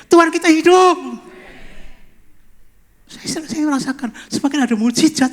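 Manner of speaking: loud, high pulpit proclamation; fervent preaching, rising to a shout; impassioned preaching. Real, not acted. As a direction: proclaim it at full force to the congregation. Preaches at full force.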